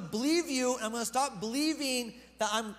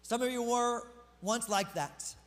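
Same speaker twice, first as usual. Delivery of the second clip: slow, deliberate scripture read; slow, weighty reading of the verse; slow reading of verse eleven; slower than usual. Shown as a demonstration. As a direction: lay each word down slowly. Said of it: "I wanna actually talk about verse eleven".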